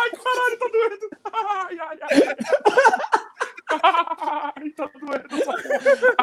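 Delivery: high laughing moans of pain. Real, not acted. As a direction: laugh through real pain, squealing. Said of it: "Caralho, eu tô rindo". (rindo e gemendo de dor)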